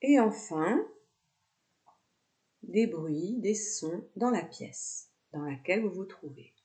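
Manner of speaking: calm yoga nidra guidance with long pauses; guided meditation. Real, not acted. Yoga teacher guiding students lying down with eyes closed, guided meditation. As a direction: lead them into relaxation, phrase by unhurried phrase.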